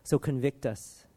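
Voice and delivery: earnest prayer. Real, not acted. Preacher praying to God for the congregation, earnest prayer.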